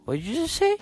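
put-on high, outraged kid's retort; indignant challenge. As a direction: snap back like an offended preschooler. Preschool quarrel, confronting the girl.

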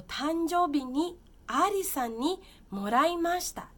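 teacher plays Yuri in the dialogue; voicing Yuri. Teacher voicing Yuri about the gift, slow and loud.

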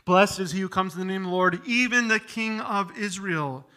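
fast, eager acclaim; breathless joyful welcome; excited crowd. Retold or imitated. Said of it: "You sense the excitement here?".

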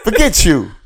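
loud, high mock dub voice; censored dub line. Mocking the dubbed voice to his friend, loud and high. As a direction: ham up the TV edit.

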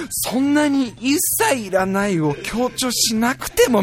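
slow, deflated whimper; dejected mumble. Retold or imitated. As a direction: sag as if crushed by her words. Husband's dejected inner voice. (しょんぼりとゆっくりつぶやく)

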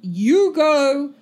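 high, loud, insistent refusal; flustered refusal. Acted. Guard refuses a stranger's company, flustered. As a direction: refuse in a hurry, voice jumping up.

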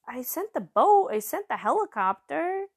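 high, exasperated stereotypical Jewish comedian. Acted. God answering a drowned man, Jewish comedian voice. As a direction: shrug it out like an old-school comic. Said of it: "Jewish comedian voice".

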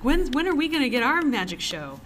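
playful group plea for the magic show; eager kids begging. Retold or imitated. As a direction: whine it like excited kids asking for a treat. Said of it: "We would all be like".

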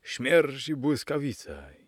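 slow, high-pitched character shout; exclaimed again. A narrator's reading. Young gentleman shouting his oath again, high slow shout. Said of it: "znów zawołał".

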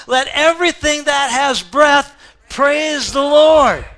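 slow, high, loud proclamation, words hit hard; preacher leading the congregation in unison, loud; loud call with congregation. Real, not acted. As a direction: lead the church in a shout. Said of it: "hit those last three words with me".

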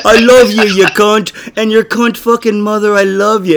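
mock English accent, lightly done; hammed-up English accent, loving tone. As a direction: swear affectionately in a put-on English accent. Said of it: "I said it in an English accent".

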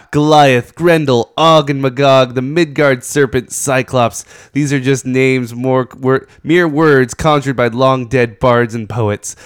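epic narrator voice, slightly amused; grandiose reading. Shown as a demonstration. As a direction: read it like a mock-heroic saga. Grandiose reading of comic prose.

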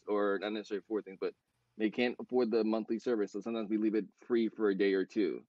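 quick, hurried explanation; speaking fast. Real, not acted. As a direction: rush through the explanation, correcting yourself. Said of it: "I'm just speaking really, really fast".

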